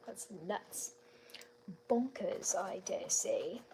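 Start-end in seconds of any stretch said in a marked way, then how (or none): 1.9-3.6 put-on British accent. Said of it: "Little British accent there for you".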